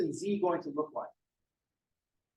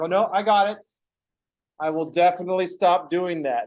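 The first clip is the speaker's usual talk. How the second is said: mock eager promise; 2 semitones higher, 5 dB louder than usual. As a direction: promise loudly, not meaning it.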